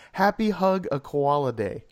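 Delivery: slow, imitated Australian accent; mock Australian accent. Quoting the trailer's last line, mock Australian accent. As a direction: stretch it out in a playful Australian accent. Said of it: "doing his Australian accent".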